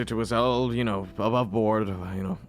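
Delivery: politely dismissive lord. Acted. Lord declines a proper service for the dead woman, politely dismissive. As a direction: brush the offer off with profuse thanks.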